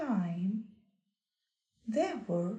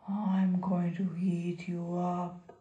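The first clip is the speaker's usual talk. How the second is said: low troll voice; 4 semitones lower than usual. Acted. Troll threatens.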